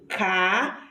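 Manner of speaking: carrinho split into car, ri, nho; syllables separated. Shown as a demonstration. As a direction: say carrinho one syllable at a time. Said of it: "Ó, separado".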